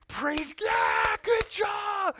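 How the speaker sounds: high, loud joyful shout; shouting praise back at the crowds; cheering to the crowd. Retold or imitated. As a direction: whoop it out like a parade cheer. Cheering crowds in dream parade.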